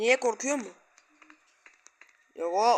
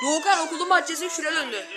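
mock wailing; 6 semitones higher than usual. Wailing about the yard.

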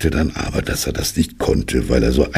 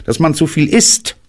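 streng; 13 semitones higher, 3 dB louder than usual. Acted. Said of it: "sagte Kaninchen streng".

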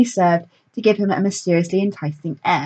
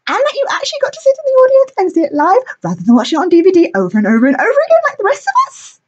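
pixie; 4 dB louder than usual. A narrator's reading. Pixie gushing over hero.

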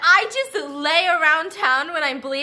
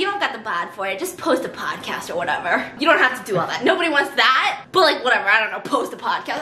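dismissive, lower voice; 3 semitones lower, faster than usual. Retold or imitated. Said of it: "They're like".

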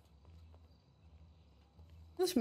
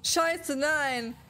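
panicking gamer; much slower than usual. Real, not acted. Gamer panics as plane crashes.

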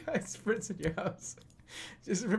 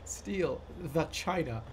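deliberate repeating; 4 dB quieter than usual. Shown as a demonstration. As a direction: say it like a memorized chore. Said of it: "Just saying it so deliberately".

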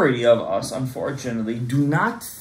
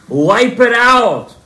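booming command; 4 semitones higher, 8 dB louder, much slower than usual. Acted. Climax of God's command.

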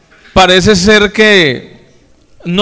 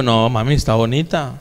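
softer, lower, gently reassuring; tender reassurance; 5 semitones lower, 6 dB quieter than usual. Retold or imitated. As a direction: soothe a wife who feels fat. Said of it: "Cómo le digo yo".

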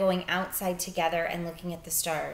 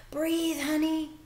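put-on pleading boy; 10 semitones higher, slower than usual. Bryce coaxing his dying sister.

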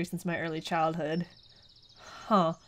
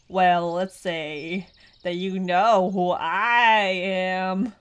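robotic voice; 5 dB louder, much slower than usual. Acted. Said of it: "his voice".

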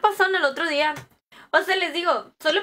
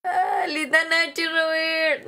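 mock wail; 3 semitones higher, slower than usual. Wailing mock cry.

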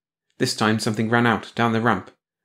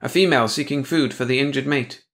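cool logic; 5 semitones higher than usual. Acted. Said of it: "dismissed it with cool logic".

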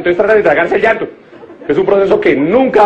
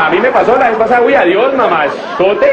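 mock flirty catcall; 4 semitones higher than usual. Catcalling a man in the street.

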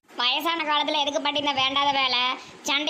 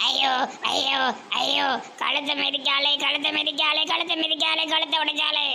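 wailing granny. Acted. Granny wails as neck is trampled.

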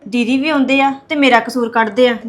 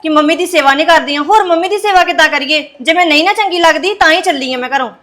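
raised, higher voice pushing back hard; daughter-in-law arguing back angrily, pitched higher; angry retort; 3 semitones higher, 3 dB louder than usual. Acted. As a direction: snap back at the mother-in-law, voice up. Quarrel with mother-in-law.

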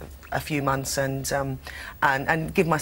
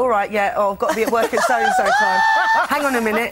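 put-on loud, high, laughing London accent; London accent on the phone; 10 semitones higher, 5 dB louder than usual. Actress answering the phone at home, broad London accent. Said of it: "then I'll answer the phone and go".

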